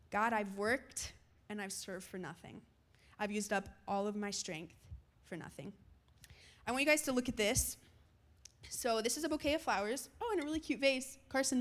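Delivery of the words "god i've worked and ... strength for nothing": low, soft, deflated; acted discouragement. Preacher voices a believer arguing with God, discouraged. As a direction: give up quietly, trailing down. Voicing our argument with God.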